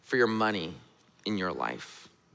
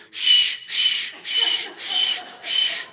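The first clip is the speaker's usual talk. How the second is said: whispered frantic shushing; much slower than usual. Retold or imitated. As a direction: hush them urgently under the breath. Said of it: "I hear Jude".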